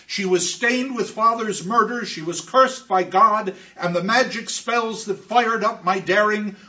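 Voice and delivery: a distraught confession, pushed loud and hard; rising fury. Acted. Orestes tells his friends he killed his mother, loud and anguished. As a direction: let the guilt boil over into a declaration.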